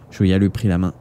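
usual speaking voice

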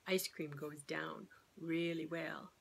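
hushed, slow admission; a sly whispered confession; confiding whisper. Real, not acted. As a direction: whisper it like a guilty secret. Sarcastic aside after the ice cream rule.

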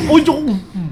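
high, loud surprised cry; real jump-scare cry; startled yelp. Real, not acted. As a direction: caught off guard by a scare. Sudden scare in game.

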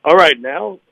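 playful attempt at a radio announcer; lightly put-on best radio voice. Guest announcing a ticket giveaway on request, in radio voice. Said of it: "You gotta do it in your best radio voice".

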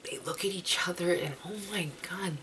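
breathless whisper of awe; hushed whisper. Real, not acted. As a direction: whisper it like you can't believe it. Gushing over fan couple moment.

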